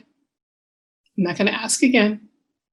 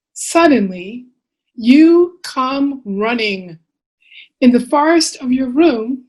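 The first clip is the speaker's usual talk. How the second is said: measured storytelling with lilting phrases; picture-book reading; 2 semitones higher, slower than usual. Acted. Author reading bedtime book to children, expressive storytelling. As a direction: read to little ones, pausing between phrases.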